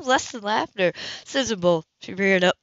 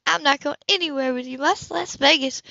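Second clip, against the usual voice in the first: indignant woman; 7 semitones higher than usual. Acted. Woman refusing to go.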